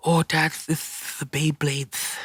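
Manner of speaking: put-on high, slow little-kid voice with a lisp; excited little boy spotting a toy, lisping; imitating his little son. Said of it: "And he had a lisp".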